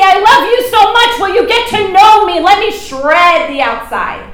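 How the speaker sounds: voicing God. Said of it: "God sometimes will come in and say".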